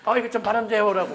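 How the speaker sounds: high, eager classmates pestering; students' request. Retold or imitated. Chinese students pestering the Korean student, eager. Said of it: "애들이 자기만 보면은".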